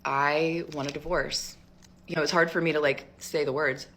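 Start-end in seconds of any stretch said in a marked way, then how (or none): 0.0-1.6 slow halting confession. Retold or imitated. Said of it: "And I just started crying".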